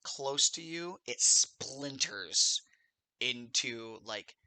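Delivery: measured scene-setting with vocal sound effects; game master narration. Acted. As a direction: narrate the arrow's flight in pieces, pausing for suspense, acting out twing and thunk. Game master narrates the arrow attack.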